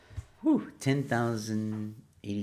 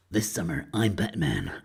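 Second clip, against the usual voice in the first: Batman voice; 3 dB louder than usual. Pretend. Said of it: "Batman quote".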